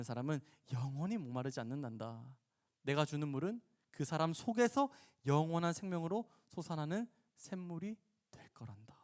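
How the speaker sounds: patient, kindly teaching voice; kindly answer. Acted. Jesus promises living water to the woman, kindly. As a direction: explain it kindly, easing down at the end. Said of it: "친절하게 답변하세요".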